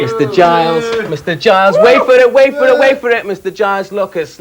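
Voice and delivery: drawn-out loud build-up to the name; speeding up to reveal. Acted. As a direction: hype the name like a game-show host, pausing for effect. Host builds up guest's name.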